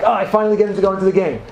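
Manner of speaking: fast, eager imitation of the benchwarmer; excited bench player. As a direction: rush it out like a thrilled benchwarmer. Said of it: "he gets all excited".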